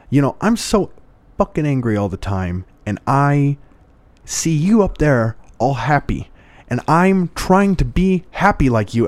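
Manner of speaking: lightly imitated thick East Coast accent; an exasperated plea, with a hint of East Coast accent. East Coast man pleading with a monk, lightly imitated East Coast accent. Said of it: "with this really thick accent".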